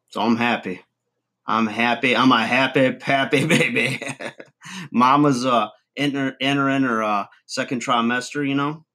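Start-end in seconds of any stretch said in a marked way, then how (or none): none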